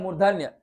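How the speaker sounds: मूर्धन्य said crisply as the answer; answer stressed. Shown as a demonstration. Teacher drilling the term: मूर्धन्य stressed. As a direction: give मूर्धन्य as the key word. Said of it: "री का प्रयोग किसके बोल रहे हैं".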